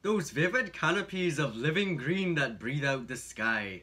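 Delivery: put-on Irish accent. Reading the blurb on partner's request, Irish accent. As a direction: read it out with an Irish lilt. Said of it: "read it with an Irish accent".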